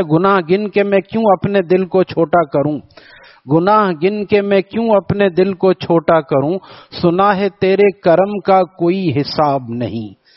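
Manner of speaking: measured verse recital; verse recitation. Acted. Recites another poet's verse.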